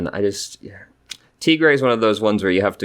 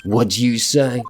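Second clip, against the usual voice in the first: put-on Brooklyn accent; 5 semitones higher, 3 dB louder, slower than usual. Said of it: "I know it's Brooklyn".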